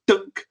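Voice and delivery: imitated hollow punch impact; hollow thunk. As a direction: voice a dull "dunk" sound effect. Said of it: "sort of, like, hollow".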